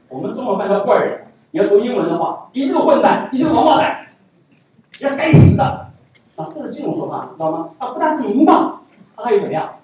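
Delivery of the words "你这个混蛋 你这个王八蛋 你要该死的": mock cursing.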